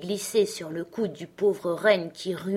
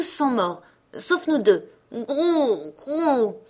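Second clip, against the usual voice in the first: higher, cooing bird voices; cooing wood pigeons; 6 semitones higher, 4 dB louder than usual. Acted. Wood pigeons telling Gerda of Kay, cooing higher. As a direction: coo like forest pigeons telling a sad tale. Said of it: "les pigeons de la forêt dirent".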